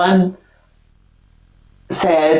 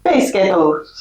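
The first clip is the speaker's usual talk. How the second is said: put-on Scottish voice imitating a pop group, slowly; much slower than usual. Shown as a demonstration. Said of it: "the Spice Girls in Scottish".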